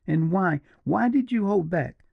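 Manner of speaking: high, frantic demanding question; wild exclamation. A narrator's reading. Julia grabbing the partisan's arm, frantic and high. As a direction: demand it wildly, almost losing control. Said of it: "exclaimed Julia, wildly".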